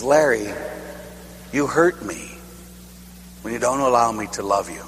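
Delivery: soft, hurt and quiet; God's quiet hurt voice. Retold or imitated. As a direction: speak gently, wounded by the refusal. God speaking, retold.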